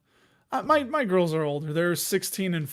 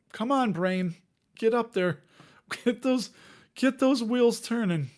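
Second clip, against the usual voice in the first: higher, playful pep talk to oneself; self-coaxing; 4 semitones higher than usual. Pretend. Talking to a stalled brain, mock urging. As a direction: egg your own brain on, voice lifting.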